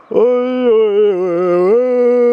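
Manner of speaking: loud, high ouch-ouch cries as the bike jolts; pained yelps. Real, not acted. Rider jolted on a rough track, loud pained yelps. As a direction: yelp out each bump, for real. Rough ride, moped jolting.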